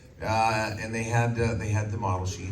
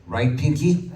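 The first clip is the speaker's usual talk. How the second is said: the Brain; 4 semitones higher, 7 dB louder, slower than usual. Acted. Brain voice addressing Pinky.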